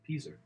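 "Pizza" ending in an r, "peetzer"; regional pronunciation. Shown as a demonstration. Answering a friend's spelling quiz on how he says it, accented. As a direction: put an "er" on the end of "Pizza". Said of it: "How do you say the following word?".

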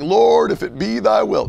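mock pious prayer. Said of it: "But we stop saying".

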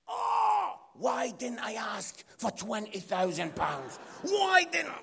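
loud, high anguished wail; hammed-up shout of regret, drawn out; comic regret. Scot kicking himself for asking too little, wailing. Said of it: "And because I'm Scottish, I was like".

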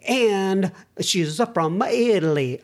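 "Italy" said slowly as "Aitly" in a hammed-up fake Italian accent; slow, mock Italian lilt, deliberately bad. Host reading a listener's letter, mock Italian accent. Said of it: "these really bad fake Italian accents".

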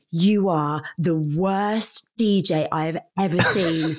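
slow, sneering complaint; rude customer. Retold or imitated. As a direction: drag it out with contempt. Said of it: "She went".

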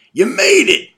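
loud, high joyful welcome; overjoyed. Acted. Father welcoming son to the caboose, overjoyed and loud. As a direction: greet them like the best surprise.

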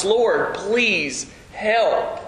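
helpless plea, drawn out and understated; re-enacted pleading. Powerless parent praying over a son, re-enacted pleading. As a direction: plead with spaces between the words. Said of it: "just pleading with God to help".

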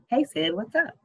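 bright sing-song greeting; excited. A narrator's reading. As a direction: sing it out, happy to hear her. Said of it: "answered the phone with an excited sounding".

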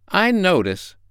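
high-pitched duck remark; inquisitive duck. A narrator's reading. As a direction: pipe up as a curious duck. Duck questions the creature.

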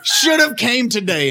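high, loud teasing; gloating. Retold or imitated. Teasing his friend who skipped the day, high laughing gloat. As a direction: rub it in, laughing. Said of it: "I was like".

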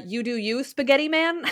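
teasing catchphrase, pitch jumps up on Man; playful one-liner. Pretend. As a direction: toss it off like a joke. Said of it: "one-liners that you can throw out to each other".

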